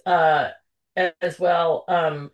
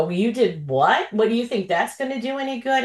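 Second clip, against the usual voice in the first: mildly mock a doubter's disbelief; quick, doubting quote; retold incredulous challenge; 3 semitones higher, faster than usual. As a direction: imitate a sceptic, rushing the second question. Retells a sceptical challenger.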